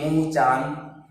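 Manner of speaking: मुंह and चांद slowly, vowels through nose and mouth together; nasalized vowel. Shown as a demonstration. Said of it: "इसका उच्चारण नाक और मुंह दोनों से होता है". (मुंह, चांद में स्वर नाक और मुंह दोनों से)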